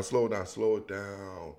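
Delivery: low, hushed self-calming; slowing down. Real, not acted. Excited host telling himself to slow down, low and hushed. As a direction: bring it right down, soft and low. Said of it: "I gotta slow down".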